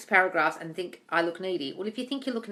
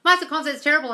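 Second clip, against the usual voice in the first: mocking whine; 7 semitones higher, 7 dB louder than usual. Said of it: "when you're saying".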